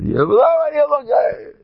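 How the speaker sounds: high, loud startled cry; mock exclamation. Acting out a man spotting problems, high loud startled cry. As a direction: yelp it out in surprise.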